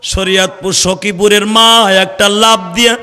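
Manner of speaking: drawn-out, half-chanted sermon delivery; waz preaching. Real, not acted. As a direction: exhort the crowd, stretching the line endings. Preaches the tragic story. (টেনে টেনে সুর করে ওয়াজ)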